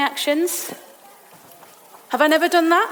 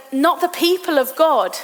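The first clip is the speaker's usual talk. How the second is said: ordinary delivery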